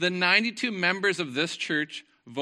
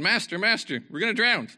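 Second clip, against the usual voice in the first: higher, louder urgent plea; alarmed cry; 7 semitones higher, 6 dB louder than usual. Acted. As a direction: read it as an alarmed cry for help. Disciples wake Jesus in danger.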